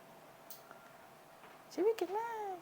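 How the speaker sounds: very high, drawn-out, breathy praise. Shown as a demonstration. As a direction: squeal the praise way up high and slow. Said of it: "เสียงสูงไว้นะ".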